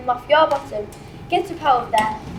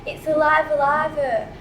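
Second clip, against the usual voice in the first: street vendor cry; slower than usual. Acted. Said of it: "That's how Molly Malone used to sell 'em".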